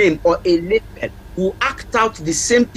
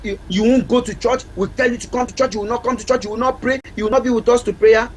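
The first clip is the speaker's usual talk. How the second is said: nagging mother; 5 semitones higher, faster than usual. Retold or imitated. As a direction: rattle off the complaints like a fed-up mother. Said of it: "the mother would be like".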